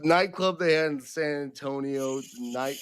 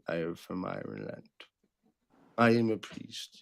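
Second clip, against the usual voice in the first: Irish priest; 2 semitones lower than usual. Pretend. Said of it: "thinking about becoming, like, an Irish priest".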